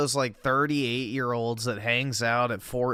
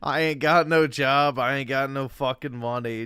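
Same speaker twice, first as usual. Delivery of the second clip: mocking echo. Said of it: "mocking friend's lament".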